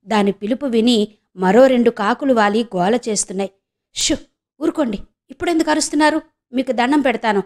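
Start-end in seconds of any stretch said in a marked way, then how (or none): 3.9-7.4 quick, higher, hushed pleading; urgent begging whisper-talk to noisy crows. Acted. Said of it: "బతిమాలుతున్నట్టు".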